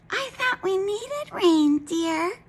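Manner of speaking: high, slow wifely voice; gentle wife. A narrator's reading. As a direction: soothe your grumpy husband. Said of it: "said Missus Wagon Wheel".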